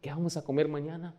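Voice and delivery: a hint of a little girl pleading; worried little girl. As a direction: play a fretting small daughter. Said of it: "Shelly se empieza a afanar".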